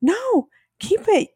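high, slow, mock-pleading wife; mimicking Victoria. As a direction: squeak it out like a frantic wife. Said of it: "And Victoria's like".

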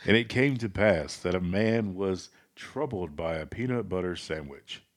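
measured mock-solemn scripture reading; pastor voice. Co-host reads sandwich verse for a laugh, light pastor voice. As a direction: lightly preach it like Bible verse. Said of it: "do it in your best pastor voice".

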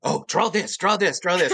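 laughing, eager urging; excited urging. Retold or imitated. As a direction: push him on with a laugh.

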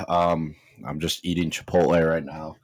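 talking while chewing; words round a bite of food; mouth full. Real, not acted. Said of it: "sorry if you hear me chewing".

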